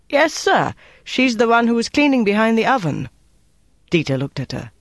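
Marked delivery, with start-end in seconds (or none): 0.1-3.1 high-pitched, eager-to-answer cook; identify her in a high, anxious voice; worried young cook. A narrator's reading. Cook identifying the woman to the officer, worried. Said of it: "A worried-looking young cook said".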